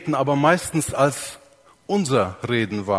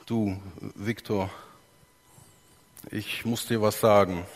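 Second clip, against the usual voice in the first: timid and quiet; 5 semitones lower, 5 dB quieter than usual. Shown as a demonstration. Pastor voicing a guilty man to Viktor, quiet and halting. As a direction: murmur it like someone who did wrong. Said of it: "meine Stimme ist leise".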